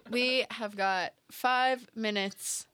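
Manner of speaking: slow, evenly spaced words; lightly put-on speaker announcement. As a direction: measure it out like an automated notice. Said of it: "like, elevator voice".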